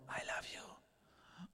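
slow whisper into an ear; very quiet whisper. Retold or imitated. Papa to his son at bedtime, very quiet whisper. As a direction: whisper it softly, drawn out. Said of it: "ich flüster ihm ganz leise ins Ohr".

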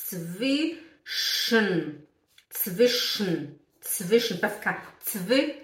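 zwischen in slow pieces, "tsvi... sh-n"; E dropped. Shown as a demonstration. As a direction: model zwischen slowly, sh running straight into n. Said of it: "Aí você coloca um sh".

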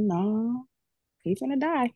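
high-pitched, pained certainty; retold grim insistence. Wife tells husband her dad will die, insisting.

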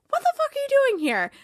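high breathy whisper, hammed up; mock whispered outrage. Boss whispering at an intruder, mock outraged. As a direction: hiss it like a shocked boss.

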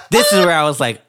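laughing. Real, not acted. Recalling losing it at show.

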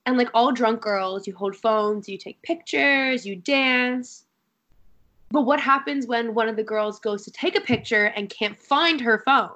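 lightly infomercial-style pitch; a touch of TV sales patter. Real, not acted. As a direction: set up the problem like an infomercial host. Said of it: "I'm talking like I'm on an infomercial".

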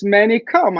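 mild motherly command; mama voice. Retold or imitated. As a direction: call him like a Greek mama. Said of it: "with a mama voice".

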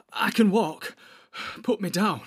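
high, strained, halting gasps; gasping. A narrator's reading. Hurt hobbit asks to be put down, gasping. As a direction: gasp out each short phrase separately. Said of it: "gasped Frodo".

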